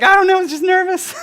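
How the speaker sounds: high, loud, laughing self-defence; sheepish laughing reply. Retold or imitated.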